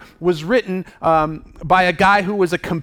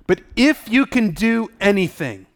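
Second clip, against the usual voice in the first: doubtful. Acted. The father asking Jesus for compassion and help, doubtful. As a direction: plead with fading confidence. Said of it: "Do you hear the doubt in his voice?".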